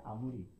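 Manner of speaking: 아무리 read with a as written; wrong reading. Shown as a demonstration. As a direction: sound 아무리 with a at the start. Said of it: "딱 봤을 때 아무리 같잖아요".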